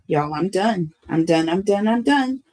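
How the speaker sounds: overwhelmed. Real, not acted. Reader overcome by the card underneath, overwhelmed. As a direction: build in pitch, really overcome.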